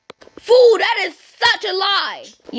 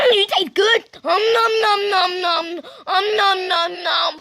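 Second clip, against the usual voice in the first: greedy om-nom eating noises; pretend munching. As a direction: gobble it up in play, savouring. Pretend monster eating someone.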